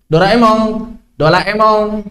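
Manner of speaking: "Doraemon" ending in ng, as "Doraemong"; Japanese final ng. Shown as a demonstration. Teacher giving a Japanese example, final ng. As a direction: close "Doraemon" on a ng sound.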